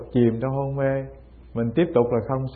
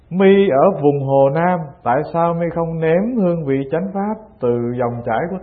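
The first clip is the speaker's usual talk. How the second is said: mildly raised, reproachful challenge; retold scolding; 2 semitones higher than usual. Old master scolds the monk from Hồ Nam, mild retold rebuke. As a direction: scold a student, but lightly acted. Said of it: "ông nạt cho một câu".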